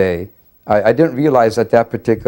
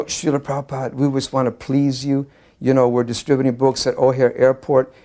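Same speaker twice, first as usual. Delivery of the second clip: mildly anxious, higher-pitched plea; retold anxious outpouring; 4 semitones higher than usual. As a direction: blurt it out a bit nervously, eager to please. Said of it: "out of complete anxiety".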